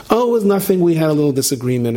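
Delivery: high, nervous brush-off; nervous excuse. Acted. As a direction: laugh it off too brightly. Beaten wife excusing her husband.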